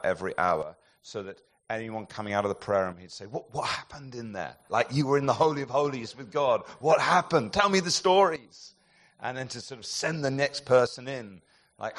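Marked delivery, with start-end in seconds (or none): 3.2-8.7 bursting to hear what happened; excited pastor. Retold or imitated. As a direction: pastor pressing for stories, getting louder. Excited pastor at prayer room door.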